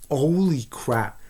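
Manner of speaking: slow, drawn-out awed gasp of disbelief; stunned holy crap. Retold or imitated. Watching the dead cat gift, slow stunned reaction. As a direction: let it sink in, stretching every word.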